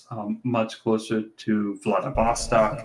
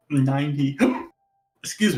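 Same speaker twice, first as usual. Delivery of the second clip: a hiccup breaks the words; 2 semitones higher than usual. Real, not acted. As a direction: talk through hiccups. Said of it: "jeez, I'm hiccuping".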